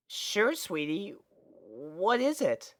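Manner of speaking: a hint of a boyish friend; casual young dragon. Young dragon casually greeting his friend, easygoing boy voice.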